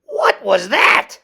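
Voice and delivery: loud, slow puzzled question; startled question. A narrator's reading. Kitten puzzled at the mirror, startled. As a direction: ask it wide-eyed.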